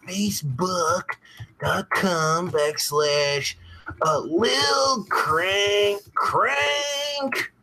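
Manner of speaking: heavily stretched words, one chunk at a time; very slow typing-along voice. Real, not acted. Streamer retyping his page link after a mistake, very slow dictation. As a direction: drag out every word as you type, "crank crank" held long. Retypes address, saying each word slowly.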